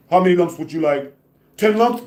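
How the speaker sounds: quick, high cartoon bunny voice. Mocking the hit man like a cartoon rabbit, light cartoon voice. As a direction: tease like Bugs Bunny offering lumps. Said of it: "Bugs Bunny".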